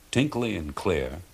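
ordinary delivery

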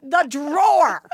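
high mocking impression of husband's empty promise; sing-song mockery of a vague husband; lightly mocking the husband's we'll make time. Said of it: "Stefan's like".

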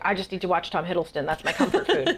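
giggling through a silly retold thought; laughing fangirl thought. To the host about her vaccine haze, giggling. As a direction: laugh it out like a loopy fan.

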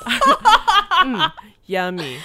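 flat, deadpan voiceover read; wooden. Pretend. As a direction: read it stiff like a bad ad. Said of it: "I like it just being really wooden like that".

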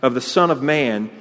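preacher reading Jesus' words with force; solemn proclamation. Acted. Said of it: "So Jesus said to them".

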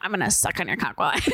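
fast auctioneer run, laughing. Acted. Auctioneer obliging the client, fast and giggly. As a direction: race it until laughter takes over. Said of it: "Say it faster".

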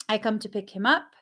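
ordinary talk

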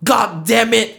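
Wesley. Acted. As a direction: cave in with mock frustration.

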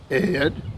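"Ed" drawn out into two syllables, Eh-ed; Texas drawl on Ed. Retold or imitated. Texan broker stretching "Ed" in a drawl. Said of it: "it's a two-syllable word".

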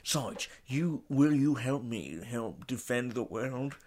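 slow, earnest mock film-hero plea; drawn-out, unconvincing star imitation; Sean Connery. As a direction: slur it like a bad Scottish spy. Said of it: "You don't sound like him".

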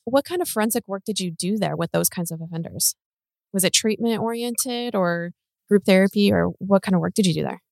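choppy call audio dropping out; cutting out. Real, not acted. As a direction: voice breaking up on a bad line. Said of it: "Oh, you're cutting out".

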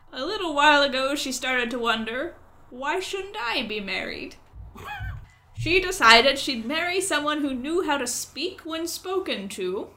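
croaky crow voice. Acted. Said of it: "try to speak in a croaky voice".

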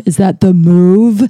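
drawn-out imitation American accent; mock American accent. Owen teasing about her catchphrase, mock American accent. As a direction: slowly put on a playful American accent. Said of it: "like to do the American accent".

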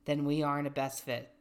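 measured, even reading voice; reading aloud. Acted. Reading a dating bio to a friend, measured reading voice. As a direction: read it out evenly, settling down at sentence ends.

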